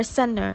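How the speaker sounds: "center" said with no T after the N; omitted T. Shown as a demonstration. Lecturer showing some American varieties, T omitted. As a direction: drop the T in "center", like senner. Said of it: "could be completely omitted in some circumstances".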